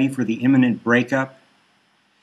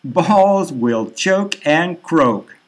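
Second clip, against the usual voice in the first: slow gloating jeer; 4 semitones higher, much slower than usual. Acted. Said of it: "Cocker laughs".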